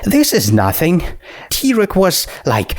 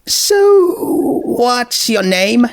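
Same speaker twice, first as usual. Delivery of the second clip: a much higher, bubbly voice, quickly sorry; high, eager skeleton girl; 11 semitones higher, much slower than usual. Acted. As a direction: gush with sudden friendly excitement. Skeleton introduces herself.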